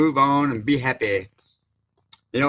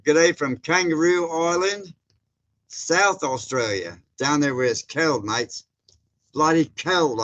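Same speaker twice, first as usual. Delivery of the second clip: a slow, hammed-up Aussie accent; Australian accent; 3 semitones higher than usual. Greeting an Australian viewer in his own accent, playful mock Australian. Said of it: "Hope I got the accent good on that one".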